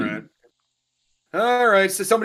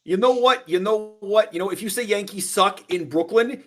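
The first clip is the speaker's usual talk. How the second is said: higher-pitched playful comeback; mock threat; 5 semitones higher than usual. New Yorker answering "Yankees suck", in a mock threat. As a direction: rise to the bait, playfully combative.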